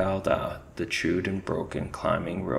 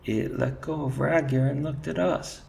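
high frightened squeak; 8 semitones higher, 4 dB louder than usual. Acted. Terrified soldier squeaking to his commander. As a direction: squeak it out in terror. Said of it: "squeaked Cheese Thief".

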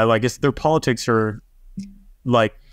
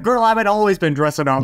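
sassy flamboyant voice; 8 semitones higher than usual. Retold or imitated. Flamboyant guest quoted.

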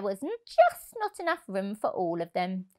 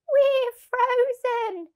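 much higher, slow shivering rabbit; 5 dB louder, much slower than usual. Acted. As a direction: stretch out the cold words like a frozen rabbit. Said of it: "said the other".

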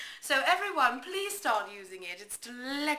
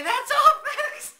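much higher, louder cartoon pig stammer on "That's all, folks"; Porky Pig impression; 14 dB louder, slower than usual. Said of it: "the Porky Pig would say".

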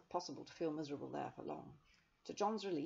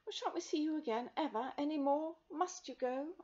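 pleading; 11 semitones higher, 7 dB louder than usual. A narrator's reading. Rosemary pleading.

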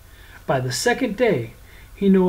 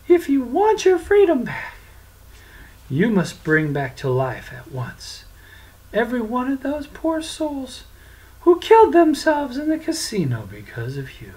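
put-on high, firm young voice; stern prince; 9 semitones higher than usual. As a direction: lay down the terms firmly. Francis sets his terms.

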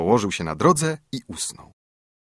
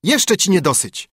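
taunt; 8 semitones higher, 3 dB louder than usual. A narrator's reading. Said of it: "zawołał wróbel".

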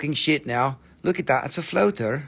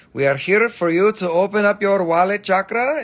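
joking pitch; 4 semitones higher, 5 dB louder than usual. Pretend. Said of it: "are you laughing at my wallet chakra joke".

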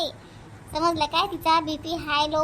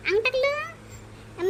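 weary stretch; 8 semitones higher, 3 dB quieter, much slower than usual. Acted. Tired woman flops down to rest.

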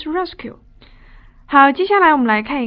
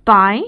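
by said louder and lower; stress on by; 4 semitones lower, 6 dB louder than usual. Shown as a demonstration. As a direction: hit the word by. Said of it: "这个介词叫做".

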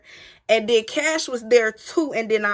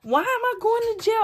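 retold crying wail; 12 semitones higher than usual. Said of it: "I'm crying".

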